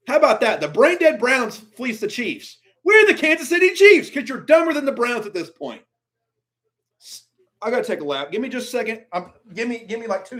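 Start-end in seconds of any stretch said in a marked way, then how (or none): 0.1-5.8 louder, higher angry rant. Real, not acted. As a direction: vent at the front office. Ranting at team's trade.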